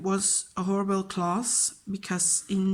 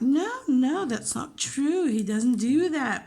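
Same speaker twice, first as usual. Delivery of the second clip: defensive parent; 5 semitones higher, slower than usual. Retold or imitated. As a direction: protest like a parent sure their child is innocent. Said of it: "their parents are like".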